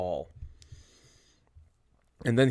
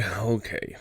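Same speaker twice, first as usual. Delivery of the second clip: softer, giving in; resigned okay; 8 dB quieter than usual. Acted. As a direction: let it drop, resigned. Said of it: "second okay, resigned".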